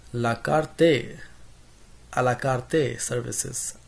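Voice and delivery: a la carte in a light mock Hispanic accent, karte with a rolled tap. Teacher slipping into a playful Hispanic accent on la carte. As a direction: toss off la carte Spanish-style, la KAR-te. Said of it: "in, like, in a Hispanic accent".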